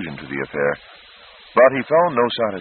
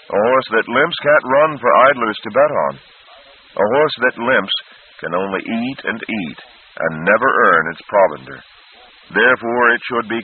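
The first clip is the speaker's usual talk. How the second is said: brisk, matter-of-fact case, pitched up; briskly; 4 semitones higher, 3 dB louder than usual. Acted. Horse doctor explaining to the prince, brisk. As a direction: lay out the logic crisply. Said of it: "the horse doctor said briskly".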